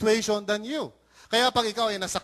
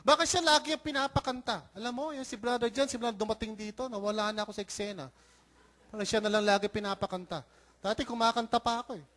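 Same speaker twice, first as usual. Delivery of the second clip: envious grumble; faster than usual. Pretend. Pastor imitating church singer jealous of a newcomer, envious grumble. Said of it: "That's envy".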